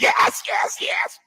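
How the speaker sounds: squeaky mimicked yeses, fading out; mock eager interrupting. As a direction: parody a fawning co-host cutting in.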